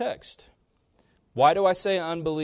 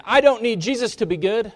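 quoting the man; 9 semitones higher, 8 dB louder than usual. Retold or imitated. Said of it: "bringing it back to this man".

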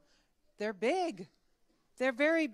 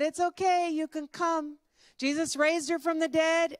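high, raised all-clear call; 6 semitones higher, 6 dB louder than usual. Acted. Man tells villagers it's safe, calling out. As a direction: holler the good news over to them. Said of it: "he called to the other villagers".

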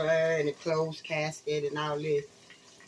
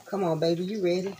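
sweet talk. Shown as a demonstration. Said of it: "Y'all hear how I'm talking to him".

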